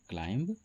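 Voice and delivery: क्लाइंब with the B pronounced; common mispronunciation. Shown as a demonstration. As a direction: wrongly sound the last B in क्लाइंब. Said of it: "सही उच्चारण नहीं है इसका". (क्लाइंब में ब का गलत उच्चारण)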